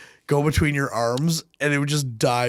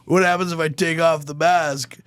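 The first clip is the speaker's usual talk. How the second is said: quoting Bane; 3 semitones higher than usual. Retold or imitated. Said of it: "the coldest line ... is like".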